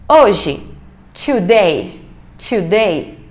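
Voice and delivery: today said slowly, teacher modelling; teacher models "today" for students, clearly; model pronunciation. Shown as a demonstration. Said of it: "teacher models today".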